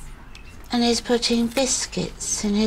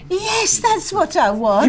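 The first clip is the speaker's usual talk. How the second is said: high, impassioned insistence; heated insistence; 9 semitones higher than usual. Acted. Defending the wish to have her round, heated insistence. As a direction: insist with pitch right up. Quarrel over phoning her.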